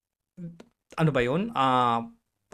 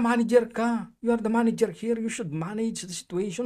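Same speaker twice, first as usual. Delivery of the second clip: raised, higher indignant voice; indignant retort, moderately raised; retold shouting back; 5 semitones higher than usual. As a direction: tell the manager off, half-shouting. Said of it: "Sinigawan ko na din".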